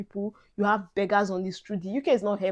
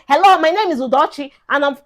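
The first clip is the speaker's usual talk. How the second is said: overdone posh British; 5 semitones higher, 8 dB louder than usual. Pretend. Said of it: "don't come say".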